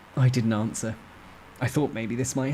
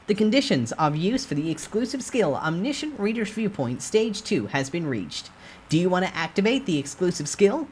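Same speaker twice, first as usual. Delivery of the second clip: system announcement; 9 semitones higher than usual. A narrator's reading. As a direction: read it like a game notice. System message voice.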